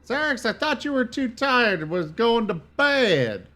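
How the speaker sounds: surprised. Real, not acted. Teasing a returning friend.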